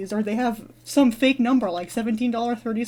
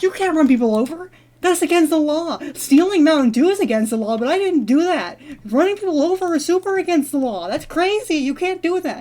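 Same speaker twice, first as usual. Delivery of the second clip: higher-pitched mock outrage; indignant protest; 6 semitones higher than usual. Dreamer arguing with the driver, indignant protest. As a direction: plead the case in a raised pitch. Acted protest at being run over.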